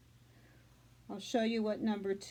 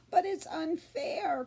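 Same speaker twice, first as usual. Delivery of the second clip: crying out; 5 semitones higher, slower than usual. Acted. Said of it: "cried Fern".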